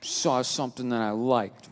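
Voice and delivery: slow, small little-girl voice, mock pleading; little girl act. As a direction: play the manipulative little girl, slowly. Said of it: "She went with the little girl".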